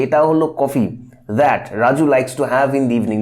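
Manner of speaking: slow, deliberate pointing at কফি; pointing emphasis. Shown as a demonstration. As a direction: stress কফি as if showing it. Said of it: "যেন আঙুল দিয়ে দেখিয়ে দেওয়া হচ্ছে".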